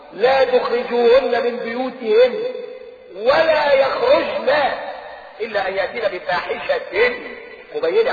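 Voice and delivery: slow, drawn-out chanted recitation; measured Quranic chant. Acted. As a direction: intone the verse slowly and solemnly. Quotes Quran verse.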